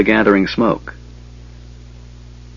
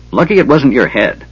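snorting; 4 semitones higher than usual. Acted. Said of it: "Flint snorted".

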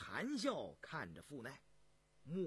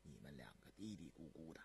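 very low, soft questioning; deep, hushed imperial displeasure; frowning emperor; 14 semitones lower, 14 dB quieter than usual. Acted. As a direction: ask quietly with a frown. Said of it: "皱着眉问道".

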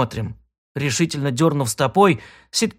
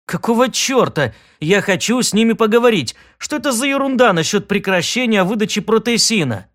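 raised, indignant question; indignant demand; 6 semitones higher than usual. Acted. Сид возмущён голосом автомата.

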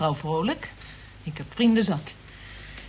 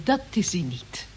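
confiding whisper; 4 semitones lower, 3 dB quieter than usual. Acted. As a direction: drop to a secretive whisper. Confides about the officer.

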